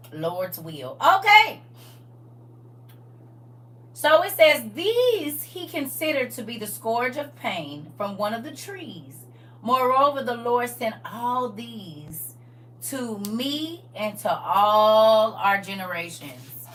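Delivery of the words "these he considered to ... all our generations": slow, measured reading aloud; scripture reading. Real, not acted. Teacher reading scripture to the class, slow scripture reading. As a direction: read it out with key words drawn long.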